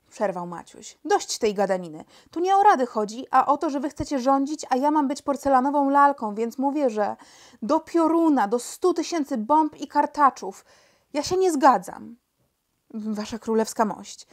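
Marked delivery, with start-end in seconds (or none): 1.0-12.2 higher, louder angry protest; indignant outburst. Acted. Young king interrupts his ministers' endless talk, indignant outburst. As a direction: cut in, exasperated and emphatic.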